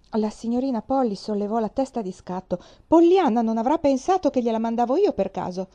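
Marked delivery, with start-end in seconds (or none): 2.9-5.7 allarmata. Acted. La zia alza la testa di scatto.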